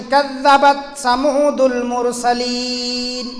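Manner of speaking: slow, drawn-out recitation of the verse; Quran recitation. Acted. Preacher reciting the verse to the congregation, slow and chanted. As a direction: recite the verse slowly and reverently.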